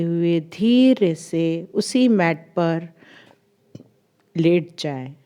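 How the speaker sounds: measured guiding voice, long pauses between phrases; guided meditation. Acted. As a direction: lead them gently through recalling the day. (ठहर-ठहर कर ध्यान कराती आवाज़)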